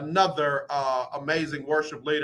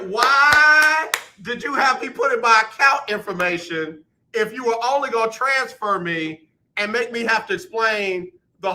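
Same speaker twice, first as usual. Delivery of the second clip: higher and louder, fed-up complaint; exasperated rant; 4 semitones higher, 3 dB louder than usual. Real, not acted. Venting at the agent who transferred him, exasperated. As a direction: vent at the call center, building up. Ranting about the phone transfer.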